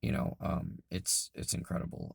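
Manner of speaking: hoarse, breaking into whisper; losing voice. Real, not acted. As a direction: voice worn out and raspy. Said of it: "I'm sorry I'm losing my voice".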